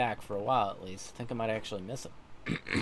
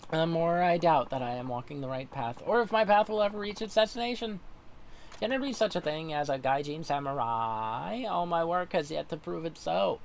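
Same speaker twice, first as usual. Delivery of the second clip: a lightly voiced earnest young samurai, a touch higher; sincere, troubled vow to his sensei; Tom, earnest samurai; 4 semitones higher than usual. Voices Tom, game dialogue.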